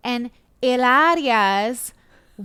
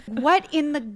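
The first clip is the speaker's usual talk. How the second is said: slow, stretched-out disbelief, louder at the end; mock incredulity; 3 semitones higher, 5 dB louder, slower than usual. Everyone reacting to her claim, mock incredulous. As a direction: build to an exasperated, drawn-out finish.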